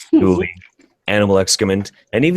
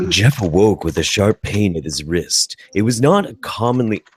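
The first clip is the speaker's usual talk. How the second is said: narrator voice. Acted. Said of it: "doing your best narrator voice".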